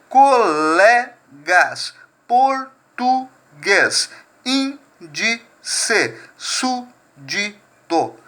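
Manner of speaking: teacher spelling out each syllable slowly; syllables sounded out slowly. Shown as a demonstration. Teacher sounding out example words for the class, slow. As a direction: stretch every syllable of the word apart. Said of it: "A mesma coisa acontece com trissílaba".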